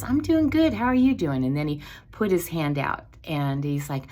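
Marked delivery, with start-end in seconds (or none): 0.0-1.4 high, louder mock voice of her husband; husband's greeting echoed in a high mock voice; imitating husband. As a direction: squeak out his cheerful reply. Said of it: "And Marvin goes".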